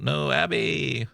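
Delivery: high, slow mock cry of alarm; drawn-out warning shout; retold scream. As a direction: call out to stop the girl in time. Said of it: "Vanessa screams out".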